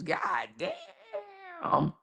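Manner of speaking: high, laughing disbelief; shocked. Real, not acted. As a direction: react in stunned disbelief. Shocked reaction to news.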